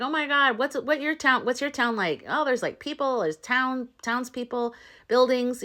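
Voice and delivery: excited chatter. Retold or imitated. New friends swapping stories of their worlds, excited. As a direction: retell an eager back-and-forth. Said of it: "he's so excited".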